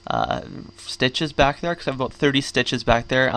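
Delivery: talking through swollen cheeks; with a sore jaw. Real, not acted. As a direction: speak as if after wisdom teeth surgery. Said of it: "My voice probably sounds a bit, uh, different 'cause I'm, my cheeks are swollen".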